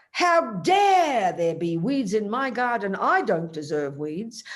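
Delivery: drawn-out, indignant mock outrage; mock shock. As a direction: exclaim it slowly, as if scandalised. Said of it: "I don't say with shock".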